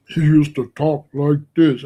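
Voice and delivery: lightly imitating a friend's dominant way of talking; Thunder. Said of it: "way down here like this".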